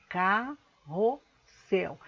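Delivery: "carrossel" slow, as ca, rro, ssel; separated syllables. Shown as a demonstration. Teacher repeating the example for pupils, "carrossel" syllable by syllable. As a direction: split "carrossel" into three spaced syllables. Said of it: "vou estar separando as sílabas".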